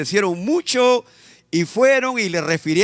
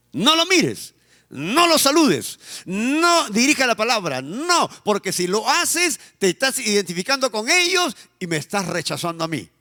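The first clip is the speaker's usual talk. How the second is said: a parent laying down the law to the family, raised pitch; bitter parent's orders; 2 semitones higher than usual. Retold or imitated. Parent forbidding children to greet an uncle, insistent and bitter.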